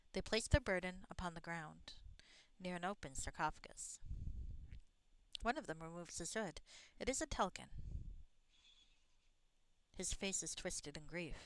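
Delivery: measured read-aloud game narration; story narration. A narrator's reading. Player reading the game's desert scene aloud, story narration. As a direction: narrate the scene evenly, phrase by phrase.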